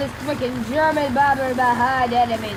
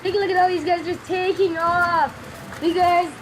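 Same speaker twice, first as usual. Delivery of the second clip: high, punchy announcer call; a game-show host calling the action; 4 semitones higher than usual. Pretend. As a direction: hype it up like a sports announcer. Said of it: "Why am I talking like this?".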